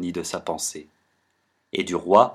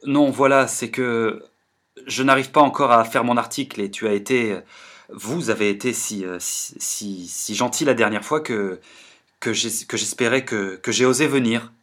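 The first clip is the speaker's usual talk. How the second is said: fort troublé. Acted. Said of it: "fort troublé".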